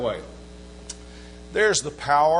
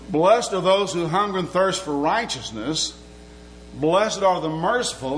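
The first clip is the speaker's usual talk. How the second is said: 1 scripture reading; 2 semitones higher than usual. Acted. Reads scripture in sermon.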